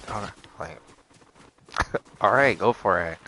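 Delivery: breathy, soft laughing resignation; awkward laugh. Real, not acted. Patient giving in to the doctor, laughing. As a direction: laugh it off under your breath.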